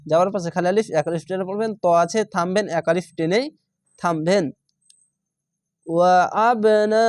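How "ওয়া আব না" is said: আব with a bouncing ব; qalqala on আব. Shown as a demonstration. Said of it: "আব, কলকলা". (আব শব্দে কলকলা)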